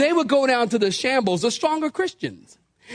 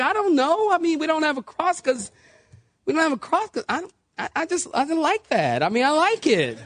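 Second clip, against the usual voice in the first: flustered defence; 3 semitones higher than usual. Acted. Acts out flustered answer to church critic.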